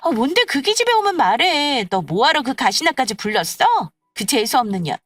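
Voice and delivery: loud, heated grumbling to the others; exasperated friend venting; irritated gossiping friend. Acted. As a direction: lash out about someone who isn't there. Irritated friend grumbling about absent woman.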